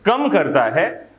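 usual speaking voice

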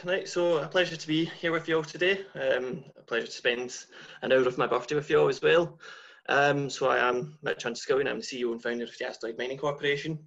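natural strong Scottish accent. Real, not acted. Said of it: "I do have quite a strong Scottish accent".

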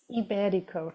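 IBERICO said softly as "ee-BEH-dee-koh"; corrected pronunciation. Shown as a demonstration. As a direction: say Iberico with ee first, stress on BEH. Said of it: "the accent is on the E".

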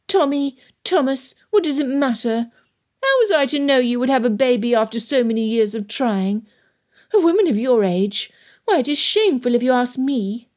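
high, voiced mock whisper; loud stage whisper. A narrator's reading. Daughter grumbling about baby so all can hear, mock whisper. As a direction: pretend to whisper while staying fully audible. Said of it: "Lydia whispered, loud enough that a deaf person".

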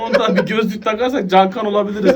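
laughing. Real, not acted. Joking about the music video.

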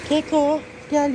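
loud call. Real, not acted. Owner calling her pet Keko across the street, loud call.

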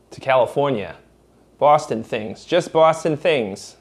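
brash mocking Boston accent of a townie. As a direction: ham up a thick Boston masshole accent. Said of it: "and I didn't have an accent".

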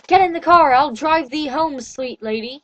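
mild courtly invitation, slowing on drive thee home; old-fashioned speech. Acted. Edward offering the heroine a ride, lightly old-fashioned courtly manner. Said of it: "he said in his beautiful old-fashioned speech".

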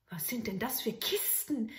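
whispered, curious. Acted. Soldier in the tunnel, whispered. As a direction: peer at the boxes.

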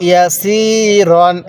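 "রন" with a rounded "o", after a long "সি"; correct reading. Shown as a demonstration. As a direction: model "ইয়া সি রন" in parts, ending on "ron". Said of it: "তাহলে কিভাবে পড়তে হবে".

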